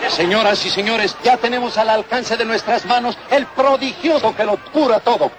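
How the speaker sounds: street remedy pitchman spiel; hyped fairground barker. Acted. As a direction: sell the cure to the crowd. Merolico selling miracle remedy.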